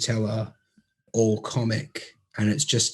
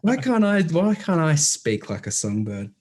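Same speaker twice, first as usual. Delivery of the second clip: exasperated wail; 6 semitones higher than usual. Retold or imitated. Self in awe of comic.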